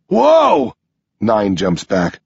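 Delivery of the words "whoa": very high, loud startled cry. Acted. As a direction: jolt back in shock. Horse appears, Nine jumps back.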